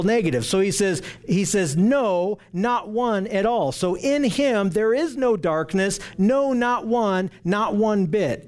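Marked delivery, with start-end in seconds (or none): 1.8-3.7 slow, weighty "No, not one at all"; emphatic. Shown as a demonstration. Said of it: "It's, it's a very emphatic thing". 6.2-8.4 slow, stressed "no, not one, not one bit"; emphatic. Shown as a demonstration. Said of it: "It's, it's a very emphatic thing".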